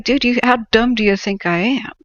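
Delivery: the clerk scoffing back at the Karen's flattery; mock exasperation. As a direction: scoff at the obvious ploy. Clerk's retort.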